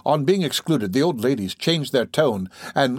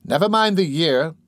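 higher-pitched impatient listener; 6 semitones higher than usual. Acted. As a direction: cut in with impatience. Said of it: "said the impatient auditor".

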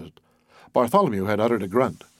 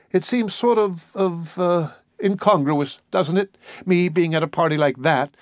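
higher, halting woman's voice; hesitant young woman Edith; 4 semitones higher than usual. Acted. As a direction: voice her groping for the words, higher in pitch.

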